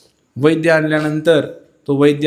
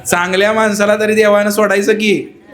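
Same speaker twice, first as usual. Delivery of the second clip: loud wailing cry; 5 semitones higher than usual. Acted. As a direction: howl the grief at the guru, half laughing. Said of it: "मोठ्यानं हंबरडा पडला बाईनं".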